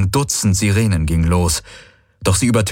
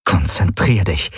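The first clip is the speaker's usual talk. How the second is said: self-command. Acted. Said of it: "befahl Galen sich".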